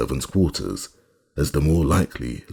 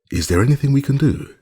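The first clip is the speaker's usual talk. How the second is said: idiotic kindness; 10 semitones higher, 3 dB louder, faster than usual. A narrator's reading. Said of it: "with the idiotic kindness of wealth".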